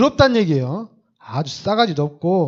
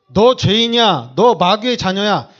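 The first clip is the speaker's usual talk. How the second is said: accusing preacher; 4 dB louder than usual. Retold or imitated. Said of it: "이렇게 가르치는 사람이 아니에요".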